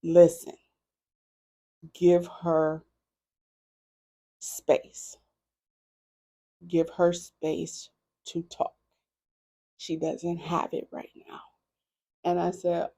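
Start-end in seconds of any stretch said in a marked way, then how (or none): 0.0-11.4 softer, hushed guiding voice, fading to near breath; a spirit gently telling her to yield; soft, hushed inner guidance; Spirit's voice. Retold or imitated. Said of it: "all I heard Spirit say".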